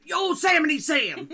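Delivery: put-on half-managed Yosemite Sam accent, laughing; attempted Yosemite Sam accent. Host fails at the accent, laughing Yosemite Sam impression. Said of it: "I can't do the accent".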